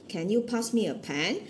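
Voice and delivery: usual speaking voice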